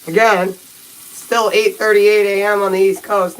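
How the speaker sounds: slow, toothbrush still in mouth; while brushing teeth. Real, not acted. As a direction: talk through a mouthful of toothpaste. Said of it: "while I'm brushing my teeth".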